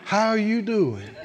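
mock pitiful greeting, drawn out. Shown as a demonstration. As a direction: ask "How you doing?" like you want sympathy. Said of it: "ask that in a pitiful voice".

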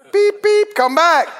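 high laughing beep beep; laughing mock beep. Naysayer teasing a dreamer, laughing mock signal. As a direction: laugh while calling them back to earth. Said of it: "Come back to planet Earth".

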